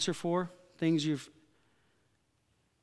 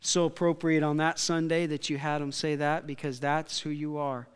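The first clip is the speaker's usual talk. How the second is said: prayer. Acted. Leads prayer.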